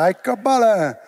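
put-on quick Palermo dialect exclamation in Palermo accent. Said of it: "l'ha detto in palermitano". (esclamazione con accento palermitano)

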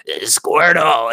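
slow raspy chain-smoker Squirtle; smoker's rasp. Retold or imitated. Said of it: "like a chain smoker".

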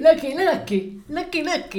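high, drawn-out teasing sing-song; mocking Greta. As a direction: tease her slowly and gleefully like Greta. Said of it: "Y eso hace". (imitando a Greta en tono burlón, agudo y lento)

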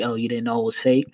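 low, mocking question; sarcastic cop. Cop doubting the fake bill excuse, sarcastic. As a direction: feign belief with light sarcasm. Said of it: "he's being sarcastic".

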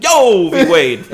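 slow, loud drawn-out bro greeting; frat bro. Retold or imitated. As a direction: stretch it like a frat guy. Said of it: "He's like".

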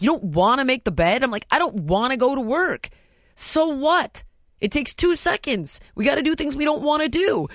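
high, emphatic mock scolding; retold parental exasperation. Mother lectures daughter over making the bed, retold exasperated scolding. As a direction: act out a fed-up parent's lecture.

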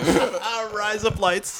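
put-on high-pitched Aussie accent; Australian accent. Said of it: "could do the best Australian accent".

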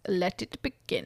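lightly hammed-up count, savouring the words; Dracula. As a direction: draw it out quietly, ominously. Echoing Dracula's ominous line.

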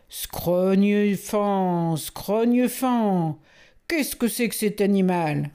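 slow, drawn-out trumpeting oath; furious elephant general. Acted. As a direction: roar it out like an angry elephant. (général éléphant furieux, juron lent et traînant)

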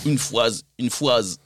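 low, soft Guadeloupean accent, R dropped in "phrase". Shown as a demonstration. Asked for a longer sentence, low Guadeloupean accent. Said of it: "Dis une phrase plus longue".

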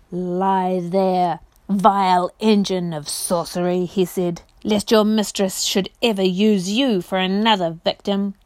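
a hint of a proud warrior's scorn; lightly voiced scornful knight. Prince to the broken chair, scornful knight voice.

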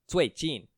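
最近 with both syllables falling sharply in pitch; 最近, each syllable starting high and dropping; double fourth tone. Shown as a demonstration. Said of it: "is a double fourth tone".

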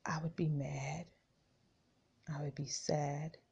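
soft unvoiced whisper. Real, not acted. Preacher confiding her own feelings to the congregation, whispered. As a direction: breathe it out like a confession.

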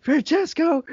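teacher shouts the student's name, high exasperated call. Retold or imitated. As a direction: snap the name like a teacher at her limit. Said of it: "she's just like".

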